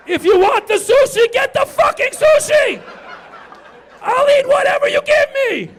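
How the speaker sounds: screaming high and loud; hammed-up fed-up shout; furious shout. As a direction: yell it in comic exasperation. Comic rant shouting at partner.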